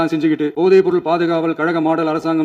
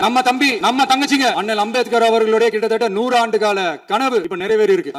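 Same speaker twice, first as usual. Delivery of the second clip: higher-pitched, emphatic assembly speech; slightly raised voice; 4 semitones higher than usual. Real, not acted. Leader challenging social-justice claimants in the assembly, slightly raised voice. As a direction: lift your pitch and press the point home. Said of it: "அவங்களுக்கு கேட்கணுன்றதுக்காக".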